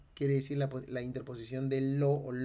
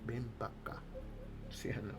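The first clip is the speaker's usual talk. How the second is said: coastal Peruvian Spanish; 7 dB quieter than usual. Shown as a demonstration. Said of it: "Es un castellano costeño".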